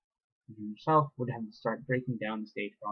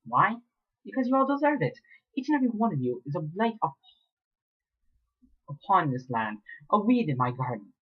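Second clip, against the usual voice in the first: high, venomous villain voice; hateful villain; 7 semitones higher than usual. Acted. Mayor tells captive they deserve it, high and venomous. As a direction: spit out her contempt.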